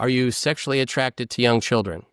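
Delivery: plain, level question; interviewer's question. Retold or imitated. Bob Costas asking Sandusky, plain and direct. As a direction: ask it straight like an interviewer. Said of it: "He's asked by Bob Costas".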